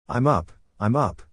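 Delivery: drowsy, just-woken mumble; sleepy murmur. A narrator's reading. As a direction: murmur it still half asleep. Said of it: "her voice still thick with sleep".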